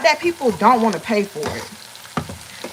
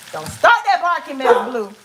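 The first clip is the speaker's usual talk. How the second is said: real higher-pitched warning; scolding the dog; 5 semitones higher than usual. Real, not acted. Telling the dog not to start barking, scolding. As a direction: cut in to check a misbehaving pet.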